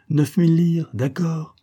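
high, firm counter-offer, loud start; decided tone. A narrator's reading. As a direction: close the deal decisively. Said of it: "fit-il d'un ton décidé".

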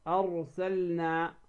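أرسلنا slowly, with the L distinct; L fully sounded before the N in أرسلنا; clear lam. Shown as a demonstration. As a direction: say أرسلنا as ar-sal-na. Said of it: "أن تظهر اللام".

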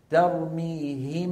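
ترميهم ب said slowly, lips closed once on م and ب with nasal hum; very slow tajweed demonstration; ikhfa demo. Shown as a demonstration. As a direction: hum the م of ترميهم straight into ب without opening the lips. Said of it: "لحد الآن شو عم تسمعوا".

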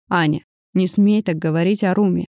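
plain reading voice

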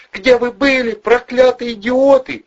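high falsetto shriek, loud and hysterical; screaming blonde. A narrator's reading. Blonde woman yelling at two thugs across the street, shrieking. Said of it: "закричала она на всю улицу".

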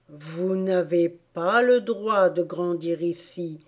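slow Dormouse reproach; slow, plodding scolding. Acted. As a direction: lay down the rule slowly.

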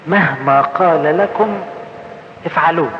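slow, gentle and unhurried; بهدوء شديد وببطء; very calmly. Retold or imitated. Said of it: "وتقول لهم بهدوء شديد".

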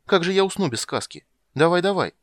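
put-on high, loud childish nagging; a girl pestering; demanding little girl. Ciri to Geralt, high loud nagging. Ciri's voice.

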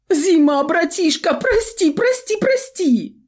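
very high, wailing, slow pleas; tearful begging. A narrator's reading. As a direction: sob out the apology. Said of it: "Залился Тиграша натуральными слезами".

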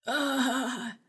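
a wounded man groaning; pained groan. A narrator's reading. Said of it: "простонал Гарик". (протяжный стон боли, голос выше)

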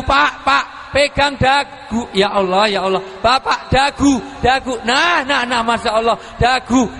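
a speaker urging the audience to hold their chin; urgent repeated calls. Real, not acted. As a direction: keep the crowd on task, half laughing.

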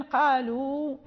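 قالوا drawn out to a held final oo; waw only. Shown as a demonstration. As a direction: end قالوا on a long waw, alif silent. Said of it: "فلننطق بالواو".

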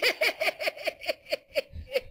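playful entity laugh; Exu cackle. Acted.

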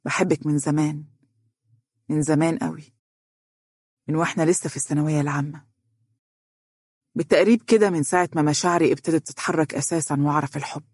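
continue confessing gently; tender, understated admission. A narrator's reading. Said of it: "فتابع حديثه".

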